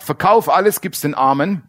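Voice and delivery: a stern Jesus raising the stakes; stepped-up command. Retold or imitated. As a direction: press the demand harder, ramped up a notch. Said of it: "fährt Jesus eine Stufe hoch".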